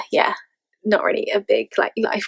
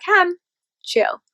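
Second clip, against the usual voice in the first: friend reining her in; 9 semitones higher than usual. Retold or imitated. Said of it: "reel me back in and be like".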